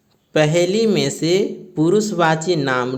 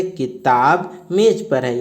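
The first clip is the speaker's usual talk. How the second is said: slow dictation; slower than usual. Shown as a demonstration. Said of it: "तो ये लिखेंगे".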